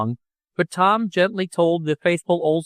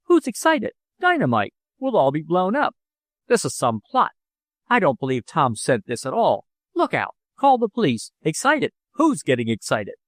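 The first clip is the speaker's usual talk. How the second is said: higher, frantic denial; flustered panic; 3 semitones higher than usual. Acted. Father panicking over the box, frantic high denial. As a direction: insist you're calm while panicking.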